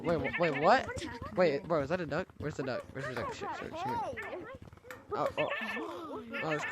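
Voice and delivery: deep, warped voice changer. Real, not acted. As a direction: talk through a pitch-shifting voice changer. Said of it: "It's a, it's a voice changer".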